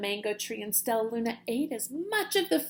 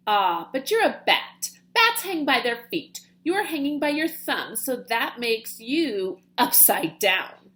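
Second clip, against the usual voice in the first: bat voice; 5 dB louder than usual. Acted. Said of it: "the creature said".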